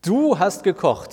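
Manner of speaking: incredulous. A narrator's reading. Trixie doubts Martin really cooked, asking in disbelief. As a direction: stretch it out, not believing it. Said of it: "fragt Trixie ungläubig".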